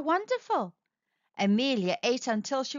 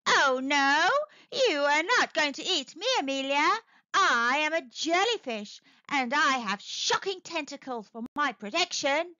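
lightly voiced jellyfish, a little higher; a hint of a jellyfish refusing to be eaten; defiant jellyfish; 3 semitones higher than usual. Jellyfish answers shark.

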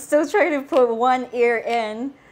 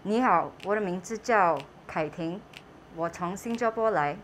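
muffled behind mask fabric; speaking into phone masked; through a face mask; 3 semitones lower, 4 dB quieter than usual. Real, not acted. Seen 4: Mask covers mouth and nose throughout; "smart" features not visible.

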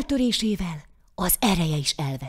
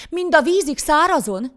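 high, loud parting words; dismissive send-off; 9 semitones higher, 6 dB louder than usual. A narrator's reading. Poor man sends the devil off, loud dismissal. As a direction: wave him off in a raised voice.

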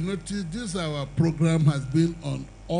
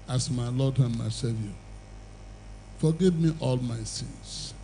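prayer; 2 semitones lower than usual. Acted. Preacher leading new converts in prayer, solemn. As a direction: guide them through the sinner's prayer.

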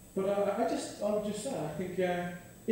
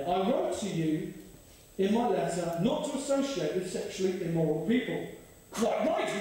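scripture reading; 3 semitones lower than usual. Acted. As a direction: read it with weight. Reads scripture aloud.

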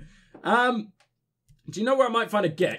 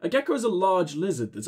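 put-on drunk voice. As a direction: play the town drunk. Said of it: "giving my drunk voice".

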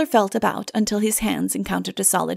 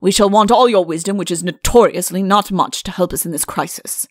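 firm rebuke, starting loud; stern, forceful king; 5 dB louder than usual. Acted. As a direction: scold with royal authority. Stern king continues his rebuke.

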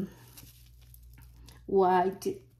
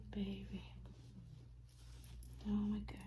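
soft hushed whisper; quiet whispered awe; awed whisper; 12 dB quieter, faster than usual. Real, not acted. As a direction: breathe it out in wonder. Awed over the doll.

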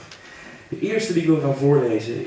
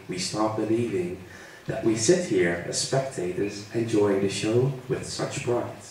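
slow, deliberate opening, measured verse reading; poem recitation; slower than usual. Acted. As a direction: recite your own poem, pausing between phrases. Leest eigen Engels gedicht voor. (eigen gedicht bedachtzaam voordragen)

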